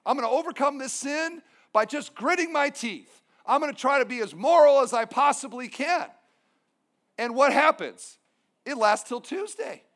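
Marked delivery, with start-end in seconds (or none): 0.0-6.1 fast, pumped-up imitation; mock eager resolve. Churchgoers leaving church energized, in fast, eager mock resolve. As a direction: rattle it off like a fired-up churchgoer. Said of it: "they think".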